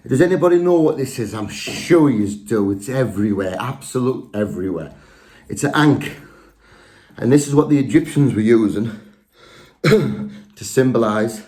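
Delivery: breathless after running upstairs; out of breath. Real, not acted. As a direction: talk while still panting. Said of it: "Whew, I'm out of breath".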